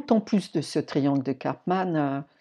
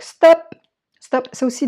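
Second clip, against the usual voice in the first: stop; 10 semitones higher, 12 dB louder than usual. Acted. Commands herself to stop old patterns.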